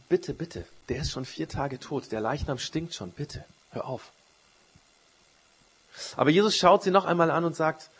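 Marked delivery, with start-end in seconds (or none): 0.1-4.1 hushed, mild plea; subdued pleading. Retold or imitated. Martha begs Jesus to leave the grave shut, softly pleading.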